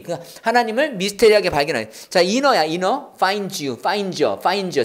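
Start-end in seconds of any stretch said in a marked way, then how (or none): 2.2-3.1 "inner" run together, no th sound; linked pronunciation. Shown as a demonstration. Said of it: "in the가 아니라 inner입니다". 3.1-4.8 "find you" run together with a reduced "you"; linked pronunciation. Shown as a demonstration. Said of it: "you는 여 발음이었죠".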